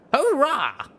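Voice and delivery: high, loud whoop of triumph; triumphant cheer. A narrator's reading. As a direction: cheer out the victory. Pegasus cheers after explosion.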